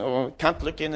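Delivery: soft, low, bashful aside; shy mumbling. Retold or imitated. Imitating people who are all shy, shy mumbling. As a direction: shrink back shyly, keeping it small. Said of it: "what people are like when they're all shy".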